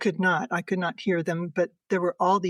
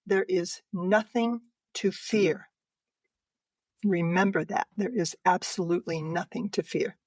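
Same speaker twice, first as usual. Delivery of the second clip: solemn message. Retold or imitated. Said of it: "then she said".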